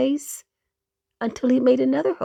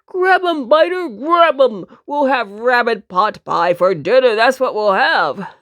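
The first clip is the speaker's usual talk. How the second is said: cried out; 4 dB louder than usual. Acted. Hunter shouting to his dog Biter loudly. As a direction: call out to the dog. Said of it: "one of the men cried out".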